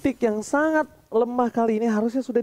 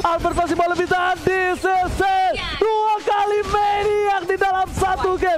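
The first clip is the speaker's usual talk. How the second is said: fighting game announcer; 6 semitones higher than usual. Real, not acted. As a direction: roar the Maniac like an arena announcer. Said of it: "caster screams triple kill, Maniac". (teriakan penyiar game pertarungan)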